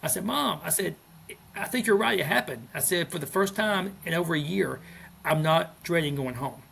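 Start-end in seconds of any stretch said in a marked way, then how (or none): 0.2-0.6 high, emotional cry of Mom; calling out through tears, lightly retold; a touch of teary overwhelm. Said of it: "I called my mom in the car crying". 1.6-2.7 higher, louder teary relief; blurting it out through tears, lightly retold; mild emotional catch in the voice; retold crying. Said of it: "I called my mom in the car crying". 3.1-6.6 higher, louder teary relief; blurting it out through tears, lightly retold; mild emotional catch in the voice; retold crying. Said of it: "I called my mom in the car crying".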